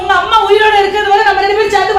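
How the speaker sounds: loud, high furious outburst at her husband; angry shout. Acted. Wife screaming at husband over his mother, furious shout. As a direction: yell it at him, fed up.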